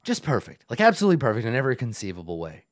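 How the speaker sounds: pompous goblin boss, lightly voiced; Yek the goblin. Goblin boss boasts of his perfection to visitors, pompous. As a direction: grandly savor each pause, lightly in character.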